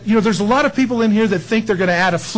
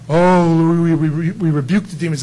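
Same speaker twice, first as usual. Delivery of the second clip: mock rebuker; 3 dB louder than usual. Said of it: "I'm not making fun of people".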